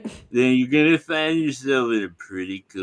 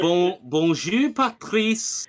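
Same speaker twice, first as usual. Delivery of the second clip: mock French mom; 7 semitones higher than usual. Parodying Ludwig's French mom.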